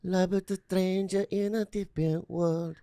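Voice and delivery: put-on sung high and soft in an Asian accent. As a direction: croon it softly in an Asian accent. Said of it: "Why is it in an Asian accent?".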